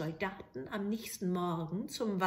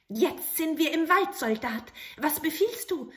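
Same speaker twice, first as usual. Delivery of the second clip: high, eager little goblin voice; bow and ask for orders; little grey man; 6 semitones higher, 7 dB louder than usual. Acted. Grey manikin appearing to the soldier, eager.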